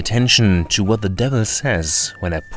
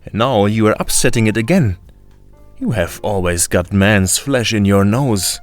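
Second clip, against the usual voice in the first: scolding; 3 dB louder than usual. Acted. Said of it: "His grandmother scolded him".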